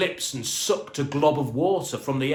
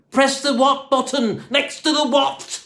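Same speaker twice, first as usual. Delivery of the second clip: high, louder puzzled repeat; baffled question; 12 semitones higher, 6 dB louder than usual. A narrator's reading. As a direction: ask it in confusion, stressing each what. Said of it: "Dave asked".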